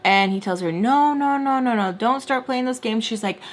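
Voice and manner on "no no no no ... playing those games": higher-pitched run of scolding no's; mock a father's firm telling-off. Father telling her to stop playing games, scolding. Father cutting off a defiant daughter.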